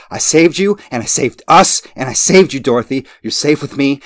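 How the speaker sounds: high, loud, unhinged crowing; manic shrieking. Acted. Madman crowing to Dorothy that he saved her, high manic shrieks. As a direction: crow over her like a madman.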